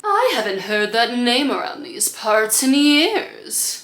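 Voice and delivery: slow theatrical villain menace. Shown as a demonstration. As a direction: drawl it like a cartoon villain, laughing. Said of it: "my villain voice".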